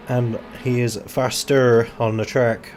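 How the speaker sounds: slow, oddly deliberate phrasing; odd slow delivery. Real, not acted. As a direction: draw the line out a bit strangely. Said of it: "I don't know why I'm saying it like that".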